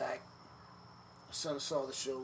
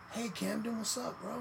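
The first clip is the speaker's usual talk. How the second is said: Rey's voice; 8 semitones higher than usual. Retold or imitated. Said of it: "He's like".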